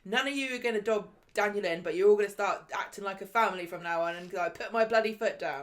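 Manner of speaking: angry Ken. Retold or imitated. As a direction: lay down the law to the whole family. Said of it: "And he's like".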